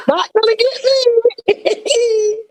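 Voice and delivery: high, slow, teary voice; cracking voice, fighting not to cry; holding back tears. Real, not acted. Guest telling the host she won't cry, teary and slow. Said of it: "y'all not gonna get me crying".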